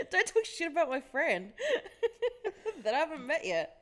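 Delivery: laughing quote. Retold or imitated. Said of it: "She's like".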